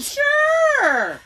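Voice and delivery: sarcastic sure. Real, not acted. Sarcastic reply to sweet man claim.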